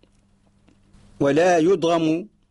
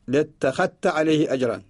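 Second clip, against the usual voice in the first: ordinary talk, nothing marked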